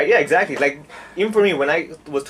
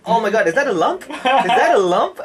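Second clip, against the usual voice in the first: higher, louder hammed-up alarm; fake panic; 8 semitones higher, 5 dB louder than usual. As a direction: overplay a sudden fright. Fakes a health scare.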